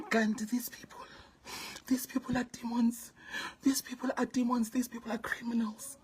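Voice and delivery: lowering voice as if telling a secret; hushed voice. Real, not acted. Hushed retelling of scam.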